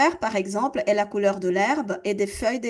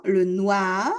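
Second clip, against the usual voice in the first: slow, careful teacher repeat of le noir; 3 semitones lower, much slower than usual. Shown as a demonstration. Teacher to students, slow careful repeat. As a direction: spell it out slowly for students. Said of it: "Encore une fois".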